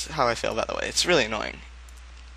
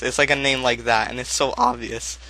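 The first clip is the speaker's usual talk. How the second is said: voice crack. Real, not acted. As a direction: voice cracking mid-sentence. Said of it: "Oh, voice crack".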